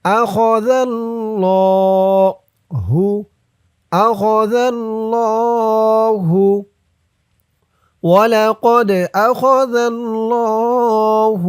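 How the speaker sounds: أخذ with a soft ذ, الله drawn long; soft dhal. Shown as a demonstration. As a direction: say أخذ with a gentle ذ, slowly. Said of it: "জালের উচ্চারণটা নরম হবে".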